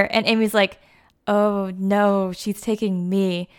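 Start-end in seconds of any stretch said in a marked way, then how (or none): 1.3-3.5 smug correction. Retold or imitated. Amy correcting Jo.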